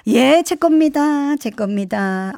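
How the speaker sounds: slow, drawn-out sheepish admission; mock-meek, stretched-out confession; imitated sudden about-face. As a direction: own up like a mum caught out. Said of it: "갑자기 본인 것만".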